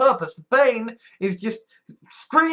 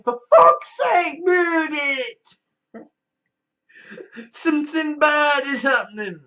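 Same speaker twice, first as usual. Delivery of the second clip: mock alarmed shout, higher and louder; panicked body yelling; 7 semitones higher, 3 dB louder than usual. Body yelling at her to move, mock alarmed shout. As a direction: bark it like your body's panicking.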